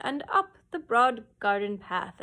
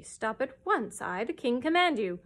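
loud, building royal order; fierce command; 2 semitones higher, 4 dB louder than usual. Acted. King ordering the cow to stop, fierce. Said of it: "said the king fiercely".

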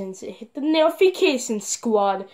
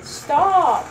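sharp loud stop; 3 semitones higher, 5 dB louder than usual. Real, not acted. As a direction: cut it off hard. Yelling at cartoon to stop.

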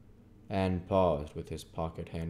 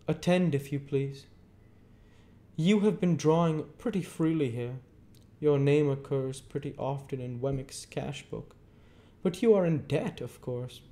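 stern lawyer Jaggers; 9 semitones higher, 5 dB louder than usual. A narrator's reading. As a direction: hold the witness with a hard stare. Jaggers lecturing Pip.

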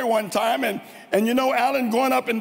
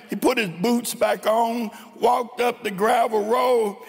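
normal talking voice

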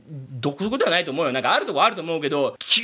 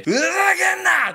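mock yell; 10 semitones higher, 3 dB louder than usual. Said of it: "ふざけんなーっつってさ".

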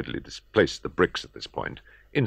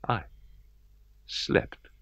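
whispered; 6 semitones higher, 4 dB quieter than usual. A narrator's reading. Repeated word, whispered.

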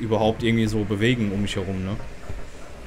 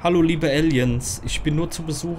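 timid placating greeting; 4 semitones higher than usual. Pretend. Placates the aliens in game.

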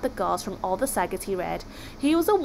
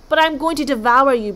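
loud, raised monster protest; bellowing Kraken; 4 semitones higher, 9 dB louder than usual. A narrator's reading. Kraken losing its Viking dinner, bellowing. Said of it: "bellowed the Kraken".

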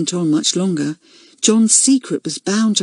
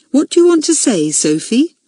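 gentle; 8 semitones higher, 3 dB louder than usual. A narrator's reading. Head girl to small junior in assembly, gentle. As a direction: ask it gently, as if coaxing a child. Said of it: "asked Rita gently".

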